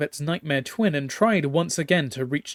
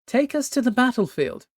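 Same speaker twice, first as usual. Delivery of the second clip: regal command; 9 semitones higher than usual. Acted. Empress commands her captain.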